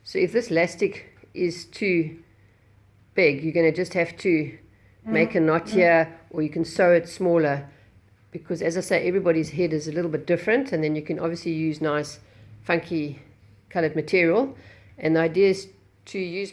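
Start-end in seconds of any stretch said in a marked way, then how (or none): 0.0-10.7 muffled behind a cloth mask; through a face mask. Real, not acted. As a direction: talk with a mask over your mouth. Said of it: "can't really talk with the mask on".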